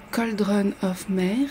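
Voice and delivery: slow, careful English accent on Cauldron of Mer. Shown as a demonstration. Vlogger naming a kit to her viewers, in a proudly mock English accent. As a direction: pronounce the kit's name in a self-mocking English accent. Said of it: "avec mon accent anglais magnifique".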